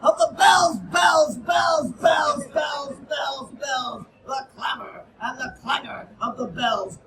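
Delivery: frantic dramatic poetry reading; urgent poem recital. Acted. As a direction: read it like a fire alarm clanging. Alarm bells stanza read loud.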